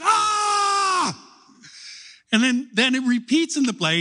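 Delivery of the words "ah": high, mock-terrified group-style "Ah!"; piercing pretend scream of fear; frightened shout. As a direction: yelp in fake fright like kids in a play. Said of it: "everybody goes".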